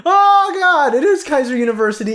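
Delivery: high, loud, stretched "oh god", then rushing on; shocked realization. Real, not acted. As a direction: cry out in dismay at the discovery. Discovers the name is real.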